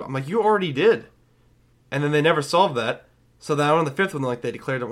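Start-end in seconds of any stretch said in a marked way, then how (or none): 0.3-1.1 loud, high-pitched comeback; exasperated retort. Retold or imitated. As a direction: throw it back loudly at the movie.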